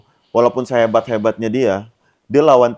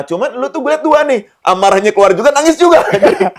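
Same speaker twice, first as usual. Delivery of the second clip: laughing; 13 semitones higher, 4 dB louder than usual. Real, not acted. Host teases guest, breaking into laughter.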